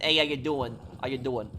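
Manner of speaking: lightly put-on New Yorker accent. Shown as a demonstration. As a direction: greet them in a casual New York accent. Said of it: "basically New York accent".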